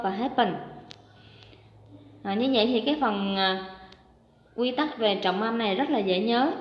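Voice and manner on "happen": happen with HAP- stressed; stress on first syllable. Shown as a demonstration. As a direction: lean on the opening syllable of "happen". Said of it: "đều có trọng âm hai".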